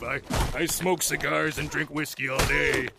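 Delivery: imitated old smoker's trailer voice; cigar-and-whiskey voice. Imitating the late trailer announcer, cigar-and-whiskey voice. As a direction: sound like cigars and whiskey all day. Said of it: "he had that voice of".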